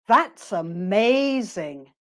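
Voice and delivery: slow "That's amazing" with "amazing" stretched; positive reaction intonation. Shown as a demonstration. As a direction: draw out "amazing" in an admiring arc. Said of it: "their voice goes up".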